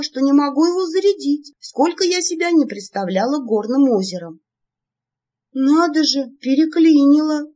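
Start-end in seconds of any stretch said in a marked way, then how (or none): 5.6-7.5 высокий громкий удивлённый возглас; ахни от удивления; удивлённо. A narrator's reading. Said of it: "удивилась я". (громко и высоко удивляется)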